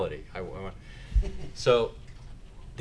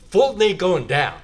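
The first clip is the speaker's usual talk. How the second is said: amused laughing; 9 semitones higher, 9 dB louder than usual. Real, not acted. Joking aside about tax rates.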